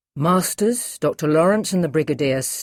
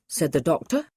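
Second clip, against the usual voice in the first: ordinary delivery, nothing marked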